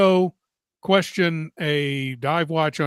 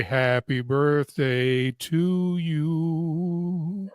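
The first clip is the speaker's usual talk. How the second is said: put-on half-hearted Australian accent; much slower than usual. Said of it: "sing the happy birthday song in your Australian accent".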